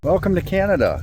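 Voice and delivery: high, bright greeting voice like a border announcer; mock announcement. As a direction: announce it like an official welcome. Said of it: "Just kidding".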